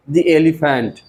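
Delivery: the elephant with "the" said "dee" before the vowel; teacher demonstrating "the" as "dee" in the elephant. Shown as a demonstration. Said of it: "कहाँ द को दी बोलते हैं".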